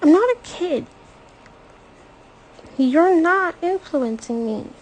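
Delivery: high and loud, nose blocked from crying; snapping back through tears; stuffed-up tearful defiance. A narrator's reading. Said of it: "Her nose is stuffed up".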